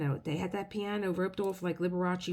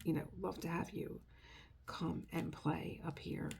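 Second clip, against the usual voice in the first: soft gentle coaxing; 8 dB quieter than usual. Retold or imitated. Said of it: "I said".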